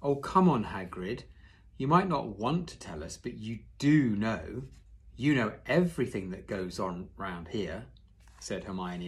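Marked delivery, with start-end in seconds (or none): 0.0-7.9 butter up Hagrid gently; warm flattering. Shown as a demonstration. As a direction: reread as Hermione flattering Hagrid warmly. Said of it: "I'll read that again in a warm, flattering voice".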